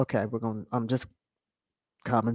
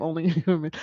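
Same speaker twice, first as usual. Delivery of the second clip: laughing; faster than usual. Real, not acted. Reading a comment, laughing.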